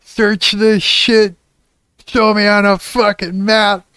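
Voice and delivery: high, slow, stretched-out yelling; long-winded rant. Retold or imitated. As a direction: reenact drawn-out shouting at a robot. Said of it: "I was literally going long-winded".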